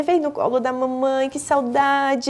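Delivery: a touch of syrupy mother voice, slowing at the end; mild singsong parentese; lightly cooed baby talk. Acted. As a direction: lightly act a doting mother, stretching the last word. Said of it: "essa fala mais melosa".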